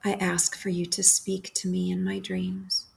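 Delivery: calm, unhurried prayer with long pauses between phrases; guided prayer meditation. Acted. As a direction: lead a bedtime prayer, leaving room to repeat each phrase. Leads a bedtime guided prayer.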